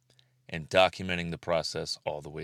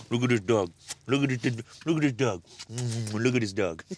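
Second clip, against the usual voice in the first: squeaky praising a dog; 4 semitones higher than usual. Real, not acted. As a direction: gush over the cute dog. Showing off the dog.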